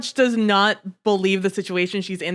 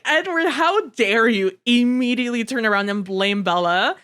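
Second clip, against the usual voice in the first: exasperated rant. Retold or imitated. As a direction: scold Edward in mock outrage, pitch climbing. Ranting at Edward about Bella.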